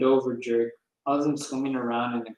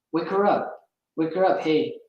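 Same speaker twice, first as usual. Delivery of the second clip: put-on drunk yelling; 4 semitones higher, 3 dB louder than usual. A narrator's reading. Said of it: "Stop screaming".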